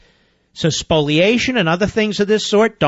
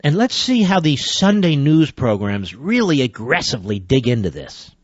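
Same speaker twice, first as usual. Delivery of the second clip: dry sarcasm, sinking low at the end; sarcastic; 5 semitones lower than usual. Real, not acted. Host doubts Sunday news shows will investigate, dryly sarcastic. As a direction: feign interest, letting the pitch drop away. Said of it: "I'm being sarcastic, obviously".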